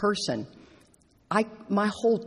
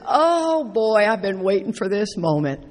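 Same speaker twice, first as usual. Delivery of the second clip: mock delight. Relished moment of confrontation.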